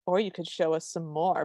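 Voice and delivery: a hint of a sultry prince. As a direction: lightly imitate a bedroom-style line. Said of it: "he says it in such a sultry way".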